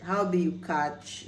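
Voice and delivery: Nigerian pidgin "How be you catch?", quick and casual; pidgin slang. Shown as a demonstration. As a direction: toss off "How be you catch?" like a street greeting. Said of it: "to just use it in a slang form".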